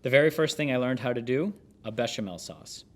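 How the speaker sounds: steady, measured book narration; narrating from the page; memoir read aloud. Acted. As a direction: read the chef's memoir to listeners.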